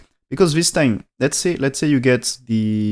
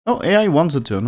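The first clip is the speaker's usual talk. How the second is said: higher-pitched, mild surprise; mildly surprised; 5 semitones higher, faster than usual. Real, not acted. Go commentator sees the AI's choice of move, mildly surprised. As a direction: react with a surprised "oh". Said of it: "I'm surprised about that".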